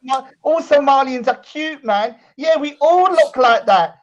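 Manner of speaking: mocking impression. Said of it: "And you're saying".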